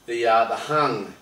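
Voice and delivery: slow, drawn-out teaser build; slow dramatic host tease. Acted. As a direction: stretch it out for suspense.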